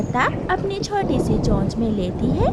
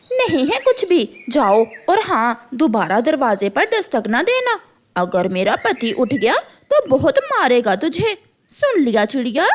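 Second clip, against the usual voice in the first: threatening crow wife. Acted. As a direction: warn her off the door.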